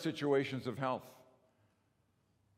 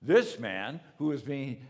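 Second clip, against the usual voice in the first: rising preaching fervor; 2 semitones higher, 6 dB louder than usual. Real, not acted. Preaching the healing.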